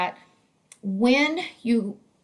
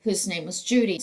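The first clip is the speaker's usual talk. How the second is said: normal talking voice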